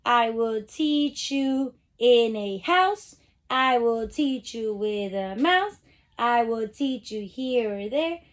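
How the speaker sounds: slow rhyming read-aloud; sing-song poem reading. Shown as a demonstration. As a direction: read the verse slowly, leaning on each rhyme. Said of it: "I'm gonna read it to you".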